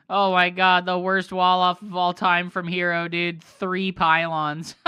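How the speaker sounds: loud, high-pitched disbelief; real exasperation. Real, not acted. Streamer watching Hero's awful wall off, loud disbelief. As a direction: cry out at a terrible blunder. Reacts to disastrous game play.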